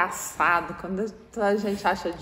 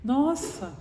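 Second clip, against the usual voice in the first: higher, mock-sincere offer of help; fake concern; 6 semitones higher, slower than usual. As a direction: pretend to care while hiding a laugh. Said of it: "Começa a fingir que tá séria".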